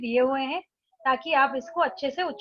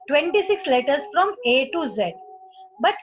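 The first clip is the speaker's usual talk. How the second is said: slow, careful reading of an English instruction; slow textbook reading; much slower than usual. Acted. Teacher reading the book to students, slowly. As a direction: read it out slowly for the class.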